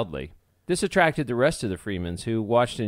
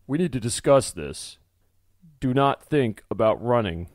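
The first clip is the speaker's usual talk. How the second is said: a hint of sternness, a bit louder; stern; 5 dB louder than usual. Archibald tells the runaways not to flee, mildly stern. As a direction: speak firmly to set the rules. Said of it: "Archibald spoke sternly".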